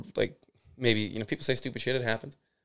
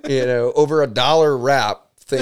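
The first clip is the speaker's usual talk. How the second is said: exasperated laughing rant; 5 semitones higher, 4 dB louder than usual. Real, not acted. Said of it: "It's just ridiculous".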